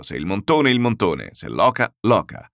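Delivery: a host laying down his food rules, loud and emphatic; emphatic insistence. Acted. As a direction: pound out every dish.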